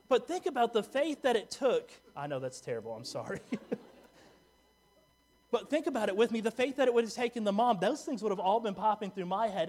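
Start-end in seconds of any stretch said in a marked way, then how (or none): 0.1-1.9 louder and higher, driving home the faith; fervent preacher push; rousing preacher call. Real, not acted. Preacher rouses the congregation. 5.5-9.7 louder and higher, driving home the faith; fervent preacher push; rousing preacher call. Real, not acted. Preacher builds the point.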